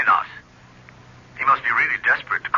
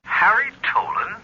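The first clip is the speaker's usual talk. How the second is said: slow, higher incredulous echo of the name; can't believe who's calling; surprised disbelief; 11 semitones higher than usual. Acted. Boss hearing his ex-partner's name, slowly incredulous.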